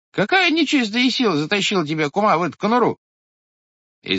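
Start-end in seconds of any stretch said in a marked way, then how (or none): 0.1-3.0 high, loud scolding question; exasperated shout. A narrator's reading. Head scolding his sister-in-law, high and loud. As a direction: throw the question at her in disbelief.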